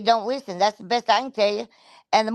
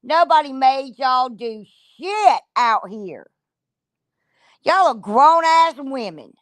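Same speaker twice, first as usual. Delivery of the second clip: slow, louder, each word hammered home; angry scolding; 2 semitones higher, 4 dB louder, slower than usual. Real, not acted. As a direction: lay into them word by word. Heated scolding of the women.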